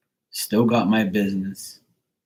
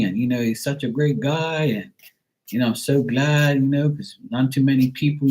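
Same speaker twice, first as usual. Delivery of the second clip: lightly imitated gushing praise, pitched higher; gushing churchgoers; 5 semitones higher than usual. Churchgoers telling parents about their son, lightly gushing. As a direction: voice admiring churchgoers, lilting a little higher. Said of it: "people at church tell them".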